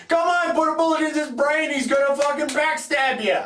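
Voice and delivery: high, urgent outburst; exasperated urging. Acted. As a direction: urge the hero on like a worked-up moviegoer. Acting out viewer urging movie hero.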